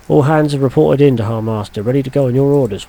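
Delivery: stiff jaw, mouth barely open; speaking around a sore jaw. Real, not acted. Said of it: "My jaw's stuck on one fucking side".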